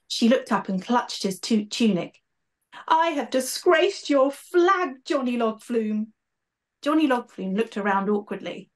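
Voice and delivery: lively storybook narration with character voices; story reading. A narrator's reading. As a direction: read it like a children's author bringing it to life. Author reads her book aloud.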